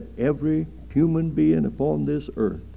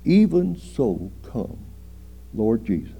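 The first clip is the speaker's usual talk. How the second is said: fervent prayer. Retold or imitated. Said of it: "Just say".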